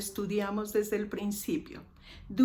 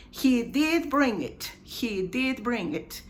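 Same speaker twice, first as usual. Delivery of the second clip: long, weighted DID in "He did bring it"; emphatic DID. Shown as a demonstration. Teacher models singular drink example, stressing DID. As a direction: lean on DID to contradict. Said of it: "to make an emphatic affirmation".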